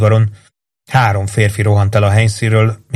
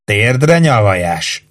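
mild mock yell; much slower than usual. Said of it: "Üvöltötte".

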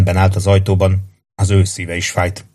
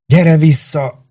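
desperate plea; 8 semitones higher, much slower than usual. Acted. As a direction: stretch out "Gyere vissza!" in despair. Halott kedveséhez könyörög. (magasabb, lassú, kétségbeesett "Gyere vissza!")

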